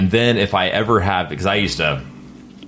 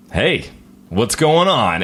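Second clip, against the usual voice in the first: brighter, higher hello; upbeat stage voice; 4 semitones higher, slower than usual. Retold or imitated. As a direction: switch on the stage persona. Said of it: "But when I get on stage, it's".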